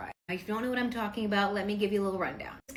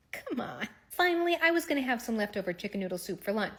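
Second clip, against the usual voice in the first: ordinary talk, nothing marked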